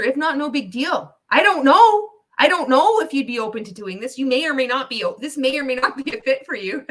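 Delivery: high, eager, overly polite sales caller; mock pitch call. Streamer mocking Ray's cold call, high and eager. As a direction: parody a nervous cold call to a millionaire.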